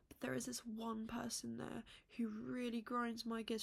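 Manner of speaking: gossipy whisper, no voice. Real, not acted. Vlogger gossiping about an annoying poet, whispered.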